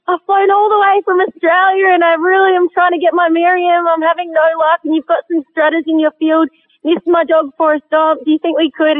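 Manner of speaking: put-on thick Australian accent. Hunter begging a landowner for permission, thick hammed-up Australian accent. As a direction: ham up the Aussie accent to charm him. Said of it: "I did put the accent on pretty thick".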